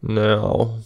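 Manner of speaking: slow, lifeless line reading; imitating a wooden, inflectionless actor; no inflection. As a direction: deliver it drawn out with zero inflection. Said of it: "no inflection in his voice".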